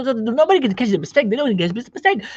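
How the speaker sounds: high, hurried gabble; rushed speech. Retold or imitated. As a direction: imitate someone racing past their mistakes. Mimics rushing so nobody catches mistakes.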